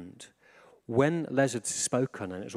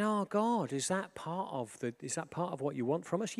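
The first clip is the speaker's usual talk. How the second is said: wondering prayer; 6 semitones higher than usual. Acted. Voicing a wondering prayer to God.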